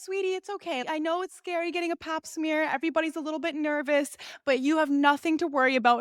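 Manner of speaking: lightly voiced nurse, starting high; soothing nurse. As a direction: mimic sweet reassurance for a scared patient. Imitates nurse reassuring patient.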